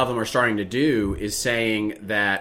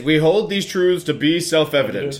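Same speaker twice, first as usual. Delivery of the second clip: mock solemn recitation; 3 semitones higher, 3 dB louder than usual. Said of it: "it is".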